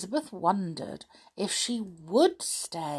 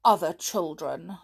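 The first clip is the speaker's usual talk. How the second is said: sulky; 5 dB louder than usual. Acted. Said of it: "said Elizabeth sulkily".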